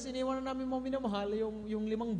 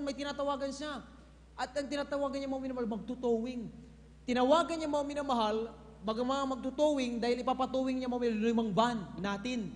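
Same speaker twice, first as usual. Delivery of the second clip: ordinary talk, nothing marked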